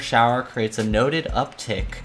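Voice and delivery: measured noir visual-novel narration; story narration. A narrator's reading. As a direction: read it like a crime-thriller narrator, lingering on phrases. Reads the visual novel's narration aloud.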